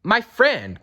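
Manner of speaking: high little voice of the mayor; a small faraway person speaking up; tiny mayor voice. A narrator's reading. Tiny mayor thanking Horton, high little voice. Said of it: "came the voice".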